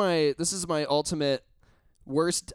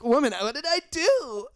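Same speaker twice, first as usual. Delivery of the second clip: mock pleading; 9 semitones higher than usual. Being shoved by his date.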